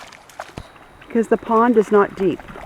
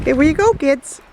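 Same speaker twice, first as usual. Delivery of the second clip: calling the dogs; 6 semitones higher than usual. Real, not acted. Calling after running dogs.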